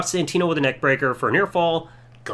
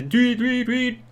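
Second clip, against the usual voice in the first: mock referee whistle, voiced in repeated bursts; repeated vocal whistle toots; imitated whistle blasts; 5 semitones higher, much slower than usual. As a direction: mimic a whistle blown nonstop. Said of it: "he's blowing the whistle nonstop".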